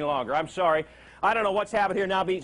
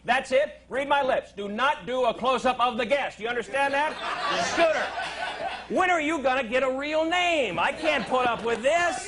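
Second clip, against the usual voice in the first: hammed-up higher boss rant; mock scolding; 4 semitones higher than usual. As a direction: chew out the crew for show. Host scolding booth staff, mock.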